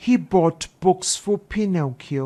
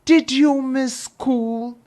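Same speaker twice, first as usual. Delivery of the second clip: sharp, louder and higher, demanding; angry question; 7 semitones higher, 4 dB louder than usual. A narrator's reading. Father confronting his son about skipping school, angry. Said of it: "he was very angry".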